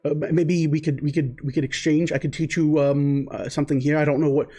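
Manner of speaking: keen student fumbling to offer a trade; Lamont in character. Acted. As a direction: Lamont bargaining with his new teacher, eager and flustered.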